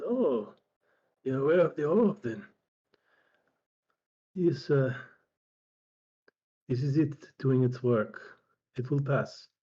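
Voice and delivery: put-on measured old healer, lightly in character; lightly voiced old healer. Old healer explains the orb's work to a sufferer, lightly voiced, measured. Game master voices Strabo.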